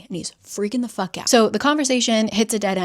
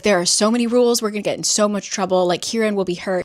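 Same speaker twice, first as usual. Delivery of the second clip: louder, rushing worried babble; flustered, louder mock panic; panicky; 4 dB louder, faster than usual. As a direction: spill it out in a panic. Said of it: "She's like".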